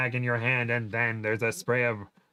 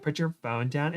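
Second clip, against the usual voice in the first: quoting back indignantly; 3 semitones higher than usual. Acted. Kim scoffs at the boyfriend's order, indignant quote. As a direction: toss the order back, unamplified. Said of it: "what's he talking about?".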